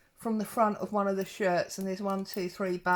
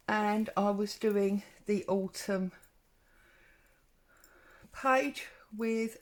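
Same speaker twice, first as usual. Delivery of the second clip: out of breath, puffing between words; a bit winded from running the stairs. Real, not acted. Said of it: "sorry, I'm out of breath".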